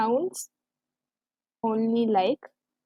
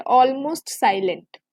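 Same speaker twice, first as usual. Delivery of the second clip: slow emphasis; much slower than usual. Shown as a demonstration. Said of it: "बहुत ही कम हो जाती है".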